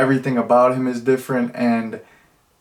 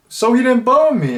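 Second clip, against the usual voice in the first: much higher mock girl voice; imitating the girl; 11 semitones higher, 3 dB louder than usual. Reviewer quoting the girl from the movie, mock high voice. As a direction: raise the pitch to play the girl, lightly mocking. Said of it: "girl who everyone thought he was with is like".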